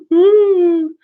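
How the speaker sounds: loud high whoop; excited whoop. Real, not acted. After thanking a donor, a loud high whoop. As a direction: whoop in delight. Reacting to chat donations.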